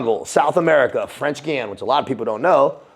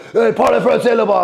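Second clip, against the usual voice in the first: higher and louder, a legionnaire snapping an order; mock shout; 11 semitones higher, 6 dB louder than usual. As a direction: yell it across the room like a drill corporal. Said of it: "I would get dudes going".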